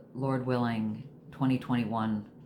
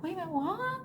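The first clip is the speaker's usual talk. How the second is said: mock disbelief; 4 dB quieter than usual. Her own shocked reply retold.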